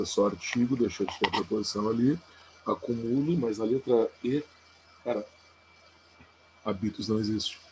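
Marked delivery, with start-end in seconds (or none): 2.7-3.4 "Acumulo" as a-cu-MU-lo; stress on MU. Shown as a demonstration. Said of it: "Como é que são essas palavras sem acento". 6.6-7.1 "habitus" as ha-BI-tus; stress on BI. Shown as a demonstration. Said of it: "Como é que são essas palavras sem acento".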